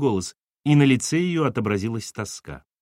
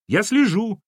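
put-on very high, boyish objection; protesting child; 10 semitones higher, 4 dB louder than usual. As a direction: defend yourself like an indignant kid. Boy protests to scolding mother.

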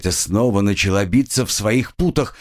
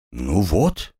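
encouraging; 5 semitones lower than usual. Acted. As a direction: reassure the victim calmly. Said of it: "ободряюще кивнул".

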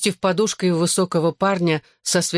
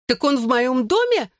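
understated shriek, raised in pitch only; high-pitched indignant question, mildly done; 7 semitones higher than usual. A narrator's reading. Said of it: "завизжала Клэр".

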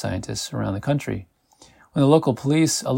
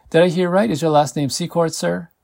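woman at counter; 6 semitones higher, 3 dB louder than usual. A narrator's reading. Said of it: "woman at the counter looks over".

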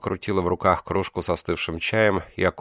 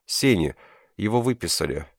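sobbing; 3 semitones higher than usual. Acted. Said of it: "всхлипнула нимфа".

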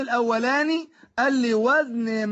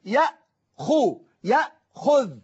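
يأخو stretched very slow, the third letter held on its damma; very slow يأخو, lingering on the damma; drawn-out demo word; much slower than usual. Shown as a demonstration. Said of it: "ركز النطق مع الحرف الثالث".

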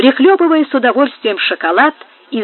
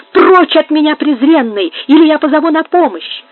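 higher, louder, threatening to call for help; horrified outcry; 6 semitones higher, 5 dB louder than usual. A narrator's reading. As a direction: drive the intruder away in horror. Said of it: "вскричала она с ужасом".

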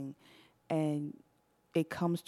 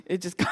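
imitated hidden cry; 2 semitones higher than usual. Woman hiding tears by the roadside, mock stifled crying. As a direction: let fake whimpers leak out between words. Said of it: "it's just sneaking out of you".

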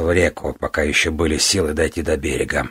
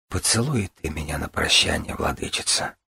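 weak, pained smile; 6 dB quieter than usual. Acted. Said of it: "со страдальческой улыбкой".

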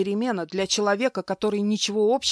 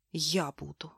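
softer, broken reply; quiet sorrow; 3 semitones lower, 7 dB quieter than usual. Acted. Wife answers her husband's cruelty, soft and tearful. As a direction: say it on the edge of tears. Heroine about to sob.

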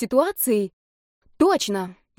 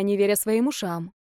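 ordinary delivery

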